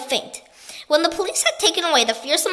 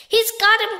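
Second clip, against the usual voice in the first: higher, louder cry of triumph; excited cry; 8 semitones higher, 5 dB louder than usual. A narrator's reading. Monkey cheering the pelican's catch, excited. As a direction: shout it out in glee. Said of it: "cried the monkey".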